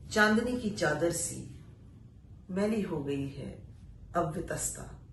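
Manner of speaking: poetry recitation. Acted. Reciting an exile poem to listeners, solemn recital. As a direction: let each line land, then pause. Recites poet's dialogue with chinar.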